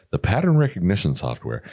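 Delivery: polished customer service phone voice. Shown as a demonstration. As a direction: sound like a helpful call-centre agent. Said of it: "I popped into customer service voice".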